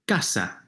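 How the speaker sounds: "casa" with CA stressed; stress on second-to-last syllable. Shown as a demonstration. Teacher presents a known word, "casa" stressed on CA. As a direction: stress CA, let sa fall in "casa". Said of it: "second to last syllable".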